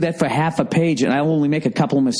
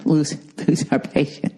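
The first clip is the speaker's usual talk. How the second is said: mock chuckling narrator; 3 semitones higher than usual. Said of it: "he tries to, like, laugh".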